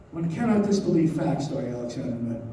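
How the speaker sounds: "facts" leaned on firmly; mild weight on the word "facts"; stress on facts. A narrator's reading. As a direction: put the emphasis on "facts". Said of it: "with an emphasis on the word facts".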